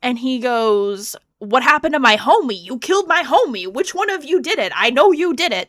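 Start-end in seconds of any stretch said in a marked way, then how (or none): 1.4-5.7 higher, louder accusing beast; the beast yelling at the family, mildly hammed; mock angry yell. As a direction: demand who killed his friend, half-acted. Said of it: "he's yelling, he's upset".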